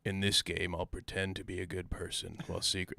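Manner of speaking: creepy puppet voice; Billy doll voice. Retold or imitated. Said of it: "you sound like the Billy doll from Saw".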